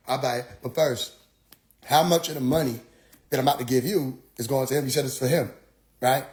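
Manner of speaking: low, restrained reply; calm, dogged questioning. Retold or imitated. Questioner asking before buying the book, low and patient. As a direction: concede quietly, then press the question.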